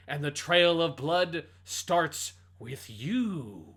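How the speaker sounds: slow, menacing villain monologue; villain speech. Retold or imitated. Podcast host reads a game's villain speech, menacing. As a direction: deliver it like a vengeful masked villain.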